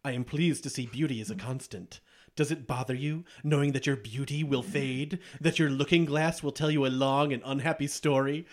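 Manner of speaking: lightly voiced smooth, seductive genie; a hint of a silky evil genie tempting her; understated imitation of a scheming genie; mini genie imitation. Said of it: "I'll do a mini imitation".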